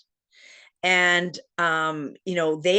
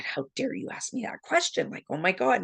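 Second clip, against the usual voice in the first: mock outrage; 4 semitones higher, 3 dB quieter than usual. Retold indignant retort to husband.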